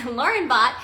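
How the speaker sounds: ordinary delivery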